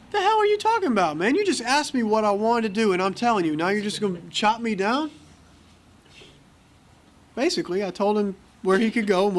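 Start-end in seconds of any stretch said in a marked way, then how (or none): 0.1-5.1 much higher, outraged "the hell"; patient snaps back at the counselor, indignant; indignant retort. Retold or imitated. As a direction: push back in disbelief.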